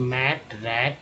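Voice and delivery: slow demo words. Shown as a demonstration. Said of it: "एटी को एट बोलते हैं".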